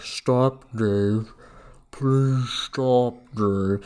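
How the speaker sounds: lightly voiced pleading computer, even and cool; a hint of HAL begging Dave to stop; calm computer voice. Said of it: "He stops from being like".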